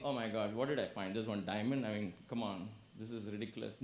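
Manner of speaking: low, trailing grumble; grumbling. Acted. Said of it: "come back grumbling".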